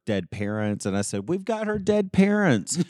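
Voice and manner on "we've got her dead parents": laughing. Retold or imitated. Excited improv line retold, laughing.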